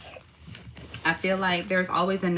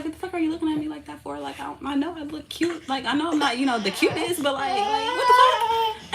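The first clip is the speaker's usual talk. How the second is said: mock indignation; 6 semitones higher than usual. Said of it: "I was like".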